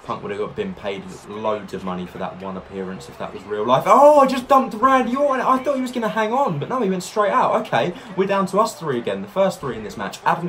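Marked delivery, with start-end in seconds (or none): 3.9-6.6 excited. Real, not acted. Sudden elimination surprise.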